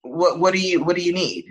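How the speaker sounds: soothing voice. Retold or imitated. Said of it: "my voice is very soothing".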